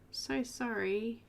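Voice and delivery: slow, tender so sorry, leaning on so; mean every word of it; heartfelt sorry. Real, not acted. Streamer comforts grieving viewer Angela, slow and tender. Condoling a viewer on lost dog.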